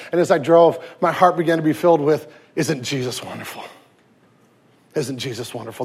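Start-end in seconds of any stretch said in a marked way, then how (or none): 2.6-5.8 soft, marveling murmur; hushed awe. Acted. Pastor marveling to himself while driving, hushed awe. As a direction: breathe it out in quiet wonder.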